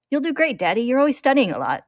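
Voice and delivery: put-on high, bright child voice; little girl Nina. A narrator's reading. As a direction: cheer her daddy on like a small girl. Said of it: "Nina says".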